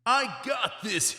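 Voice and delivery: high, loud, confident yell. A narrator's reading. Boy finally believing it, yelling loudly. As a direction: shout it like you finally believe it. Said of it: "he yelled".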